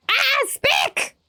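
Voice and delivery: high, bright call of a name; light up at a friend arriving; excited greeting. Real, not acted. Streamer happily greeting a viewer who just arrived.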